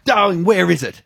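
high imitated old-lady voice. Doris asking where the mess is, old-lady voice. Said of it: "And she said".

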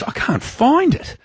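put-on high, slow old-lady wail. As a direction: imitate a helpless old woman, high and drawn out. Retold old lady searching for poo.

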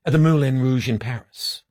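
lightly put-on Italian accent; halting, muddled attempt at an Italian accent; a hint of mock Italian. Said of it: "are you doing an Italian accent".

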